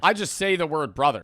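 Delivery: normal talking voice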